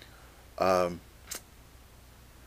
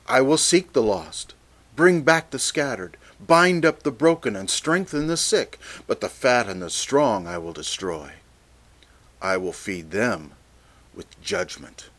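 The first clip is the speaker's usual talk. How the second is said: scripture reading. Acted. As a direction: build the promises up, then settle. Reads verse sixteen aloud.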